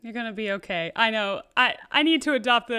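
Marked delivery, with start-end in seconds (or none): 1.6-2.8 laughing. Retold or imitated. Imitating the carefree motto, laughing.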